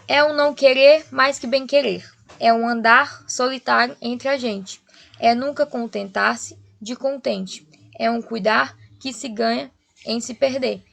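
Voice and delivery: measured, deliberate verse reading; poem recitation. Acted. Teacher reading a sonnet to the class, measured recitation. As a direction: recite with a pause between phrases.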